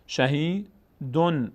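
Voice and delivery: شهیدون very slowly, long i and clear n; as written. Shown as a demonstration. Teacher reads the written word, شهیدون slow with clear n. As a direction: stretch شهیدون out to a plain n.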